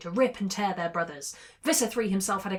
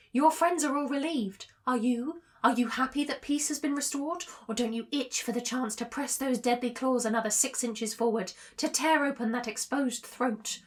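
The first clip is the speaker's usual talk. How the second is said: lilting, taunting questions in a slightly raised pitch; insidious tempter villain; 3 semitones higher than usual. Acted. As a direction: needle the hero with seductive menace. Drode tempts Rachel up close.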